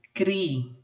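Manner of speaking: "cri-an-sa" in three separate beats; syllable by syllable. Shown as a demonstration. Teacher giving an example of separated syllables, "cri-an-sa" syllable by syllable. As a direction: sound out "cri-an-sa", pausing between syllables. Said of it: "Quando eu separo a sílaba".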